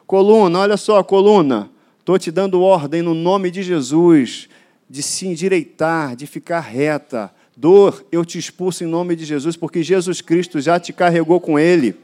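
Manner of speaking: ordens fortes e enfáticas ao corpo, em nome de Jesus; pregação de cura em voz de comando. Acted. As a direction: declare a cura com autoridade, em voz alta e firme. Pregador declara cura com autoridade. (pregador ordenando ao corpo dos fiéis que seja curado, em voz forte)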